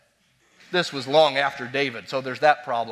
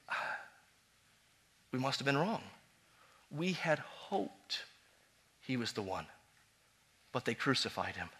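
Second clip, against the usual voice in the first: dejected disciples; 4 semitones lower, 14 dB quieter than usual. Retold or imitated. Voicing disciples' disappointment.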